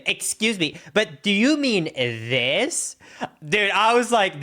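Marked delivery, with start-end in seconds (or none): 0.0-3.0 retold snide correction, higher and drawn out; condescending question, lightly mocked; imitated mean tone. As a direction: mimic someone correcting with attitude. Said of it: "when she had a tone with me".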